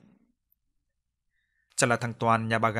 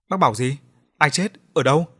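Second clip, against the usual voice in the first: louder, alarmed questions; startled; 3 semitones higher, 7 dB louder than usual. Acted. Watchman startled by news of a death.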